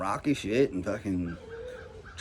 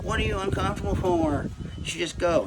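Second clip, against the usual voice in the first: mock dismissive hater; 8 semitones higher than usual. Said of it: "anybody acting like".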